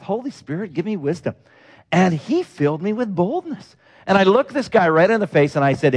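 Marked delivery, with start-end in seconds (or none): 0.0-1.3 hushed and much softer, a quiet prayer; under his breath. Retold or imitated. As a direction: breathe it almost to himself. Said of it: "I just said under my breath".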